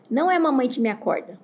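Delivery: lightly voiced protesting toddler; Baby Sauro imitation. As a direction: imitate a small child refusing mom. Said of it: "Igual o Baby Sauro".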